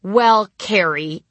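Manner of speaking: slow, drawn out stalling; slow repeat. Retold or imitated. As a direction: repeat it slowly to buy time. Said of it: "I repeated".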